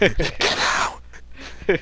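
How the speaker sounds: high, slow, drawn-out mock wailing. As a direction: wail the words like a hammed-up sob. Repeats it in a wailing voice.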